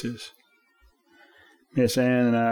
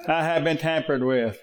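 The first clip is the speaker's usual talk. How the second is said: tinny car alarm voice; 3 semitones higher than usual. Retold or imitated. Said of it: "real tinny voice sounding".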